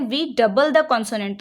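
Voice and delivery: slow, deliberate rule reading; slow dictation read. Shown as a demonstration. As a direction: read the rule out slowly for students to write. Reads rule slowly as dictation. (धीरे-धीरे नियम पढ़ना)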